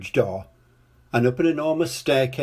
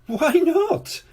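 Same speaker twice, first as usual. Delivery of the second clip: chuckling. A narrator's reading. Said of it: "she chuckled".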